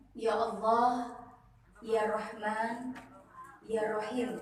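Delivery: slow, quiet "Ya Allah, Ya Rahman, Ya Rahim"; slow soft du'a. Shown as a demonstration. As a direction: pray it softly and slowly. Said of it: "Supaya orang lihat kita begini". (doa pelan dan lembut)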